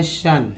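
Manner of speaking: शन said as a short "shun"; teacher's demo of शन; suffix shun. Shown as a demonstration. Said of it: "इसको बोलते हैं".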